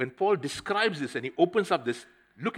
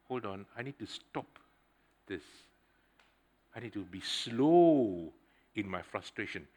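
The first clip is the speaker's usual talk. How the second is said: calm self-talk; 4 semitones lower, 3 dB quieter than usual. Retold or imitated. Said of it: "So I had to say".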